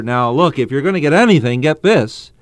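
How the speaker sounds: urgent appeal to the reader, imitating Paul; emphatic. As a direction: press the point home as Paul would. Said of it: "in order to emphasize what he has to say".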